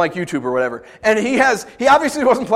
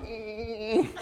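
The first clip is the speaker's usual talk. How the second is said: angry hum; 13 dB quieter than usual. Retold or imitated. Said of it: "when he's angry at you".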